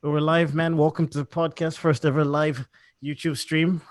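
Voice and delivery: upbeat radio host intro. Real, not acted. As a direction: announce it like a radio DJ. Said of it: "I'm putting on, like, a radio voice here".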